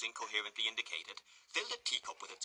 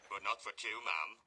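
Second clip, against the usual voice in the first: put-on soft accents. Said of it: "in soft accents".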